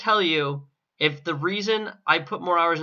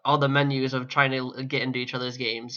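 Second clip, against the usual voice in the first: voice cracking; 2 semitones lower than usual. Real, not acted. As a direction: voice cracks mid-sentence. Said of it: "my voice cracked".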